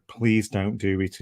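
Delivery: slow, soft and gentle; calm, soft plea. Retold or imitated. To a young man on the bridge, a slow soft calm plea. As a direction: ease him back gently, slowly and softly. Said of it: "started talking to him calmly and softly".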